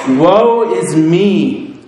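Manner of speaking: a man undone crying woe; anguished cry. Acted. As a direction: wail it out, drawn out and heavy. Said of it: "he cries out".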